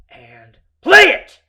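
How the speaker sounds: very loud, high drawn-out yell; sudden full-force roar; explosive scream. Retold or imitated. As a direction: let it all out in one scream. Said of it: "let it all come out through my voice".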